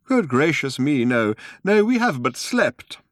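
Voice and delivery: put-on high, slow kindly old man; a courteous old gentleman, unhurried. Old man voiced by narrator.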